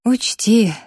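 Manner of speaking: slow, drowsy mock threat; sleepy voice. A narrator's reading. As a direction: threaten while half asleep, slowly. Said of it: "сонным голосом пригрозила я".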